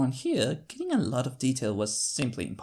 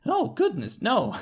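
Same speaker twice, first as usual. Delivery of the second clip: flustered exclamation; 11 semitones higher, 4 dB louder than usual. Acted. Nervous denial laughing.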